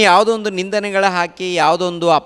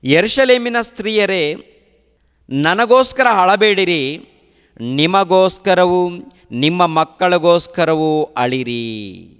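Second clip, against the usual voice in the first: slow, solemn words of Jesus; preacher to congregation, voicing Jesus slowly and solemnly; solemn scripture quote; slower than usual. Preacher quotes Jesus to weeping women, slow solemn reading. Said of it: "ಪ್ರಭು ಹೇಳುವಂಥ ಮಾತು ಏನು ಗೊತ್ತಾ".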